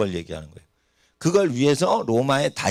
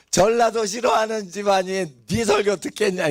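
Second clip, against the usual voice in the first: higher-pitched mock maternal fretting; imitating worried mother; 6 semitones higher than usual. Mother worrying to her preacher son, lightly imitated. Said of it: "우리 엄마가 또 얘기를 하는 거예요".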